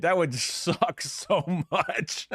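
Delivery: laughing through the words; slow, giggling delivery. Real, not acted. Laughing at own joke.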